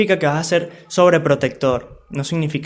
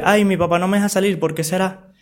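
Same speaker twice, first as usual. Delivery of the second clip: put-on whiny teen complaint; 3 semitones higher than usual. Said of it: "Otra cosa, de que".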